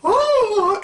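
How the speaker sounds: mock startled at the swearing; squeaky surprised oh; shocked oh. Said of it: "I was like".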